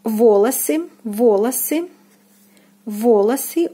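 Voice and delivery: волосы stressed on first о, second о as "a"; stress on first syllable. Shown as a demonstration. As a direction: say волосы as "VO-la-sy", carefully. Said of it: "The first O is stressed and the second unstressed".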